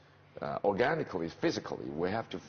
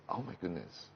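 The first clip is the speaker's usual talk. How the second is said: hoarse voice; 6 dB quieter than usual. Retold or imitated. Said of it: "Suddenly I said".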